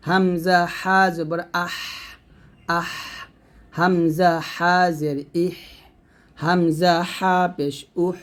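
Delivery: আহ, ইহ, উহ ending in a long airy H from mid-throat; pressed throat Ha. Shown as a demonstration. Teacher showing students the H of আহ, ইহ, উহ, pressed from mid-throat. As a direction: squeeze mid-throat and breathe out the H of আহ, ইহ, উহ. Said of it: "গলার মাঝখান থেকে চাপ দিয়ে".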